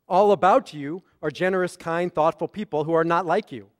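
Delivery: "All about you" starts a new sentence, falling on "not like you"; insulting phrasing. Shown as a demonstration. Rabbi reading John's misreading, pointed insulting phrasing. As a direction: stop dead after "not like you". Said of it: "but what did John read?".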